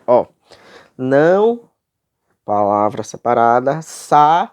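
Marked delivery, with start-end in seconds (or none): 1.0-1.7 "Não" alone, loud, higher and held; escansão silábica. Shown as a demonstration. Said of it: "Vamos para a metrificação". 3.8-4.5 "sabeis" split loudly into sa, beis; escansão silábica. Shown as a demonstration. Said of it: "Vamos para a metrificação".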